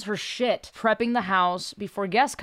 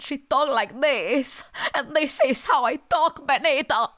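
higher-pitched hybrid Cuban-Russian character voice; weird Cuban-Russian accent; 6 semitones higher than usual. Shown as a demonstration. Comedian demonstrating her Latina mom character's voice, weird Cuban-Russian accent. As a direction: put on an outlandish Cuban accent that sounds Russian. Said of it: "She has a weird fucking accent".

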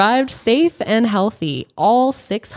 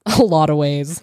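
tipsy stumble over words; tripping on the phrase, buzzed; 3 semitones lower than usual. Real, not acted. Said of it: "The wine's hitting".

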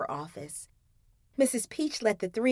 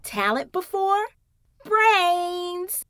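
higher playful tease; teasing jab; 8 semitones higher, much slower than usual. Acted. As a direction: poke fun at a friend. Zoe teasing.

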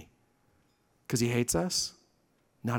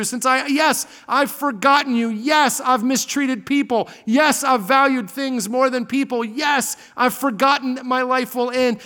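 a higher, rambling voice of a complacent believer confessing; mock confession; 4 semitones higher than usual. A comfortable believer confessing his neglect to God, hesitant. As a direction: spill it out, then ask humbly.

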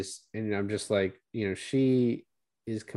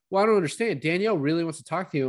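put-on higher, insistent girlfriend voice; retold insistence; 7 semitones higher, faster than usual. Girlfriend insisting Danielle wants to talk, higher insistent retelling. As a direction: push the point, higher pitched.

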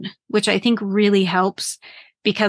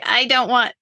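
a touch higher, whiny self-quote; mock temper tantrum; 4 semitones higher than usual. Sulking to herself about work, lightly whiny tantrum. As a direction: play a sulky adult having a tantrum. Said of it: "temper tantrum as an adult".

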